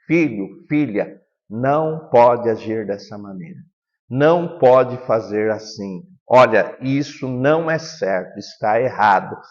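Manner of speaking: low, measured parental correction; composed parent telling a child no; calm firmness. Shown as a demonstration. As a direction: set a limit calmly and firmly. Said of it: "A firmeza transmite segurança e ensina limites".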